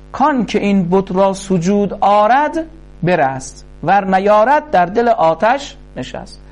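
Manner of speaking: measured, slow Persian verse recital; خوانش شعر; poem recitation. Acted. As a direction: chant the couplets like classical poetry.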